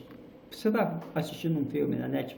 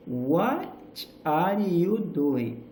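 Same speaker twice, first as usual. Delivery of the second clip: WHAT rising, then "are you doing" gliding up and down, drawn out slowly; slow "What are you doing?" with WHAT lifted and a falling end; rise and fall intonation; much slower than usual. Shown as a demonstration. Teacher showing learners American intonation, slow rise and fall. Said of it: "é esse sobe e desce".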